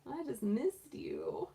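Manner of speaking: slow, drawn-out pet plea; voicing the bunny. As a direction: draw it out like a needy little bunny. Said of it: "He's like".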